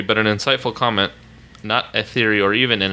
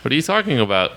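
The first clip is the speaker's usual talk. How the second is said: put-on Oklahoma country twang; mock Oklahoma accent. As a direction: deny it in a thick Oklahoma accent. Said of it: "We don't have accents".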